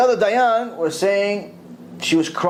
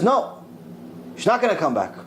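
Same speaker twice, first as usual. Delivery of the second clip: high, firm refusal as the other judge; a judge flatly saying no, pitched up; stern judge refusing; 3 semitones higher, 3 dB quieter than usual. Retold or imitated. The other judge refusing her plea, high and firm. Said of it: "the other Dayan says".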